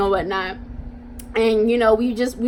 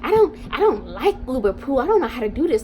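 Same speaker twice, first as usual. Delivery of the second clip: mock whiny driver; faster than usual. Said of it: "She was like".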